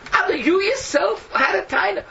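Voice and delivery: slow, high, loud accusation; stern slow rebuke; accusing shout. Acted. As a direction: drive each word home at him. Accusing Abdon directly.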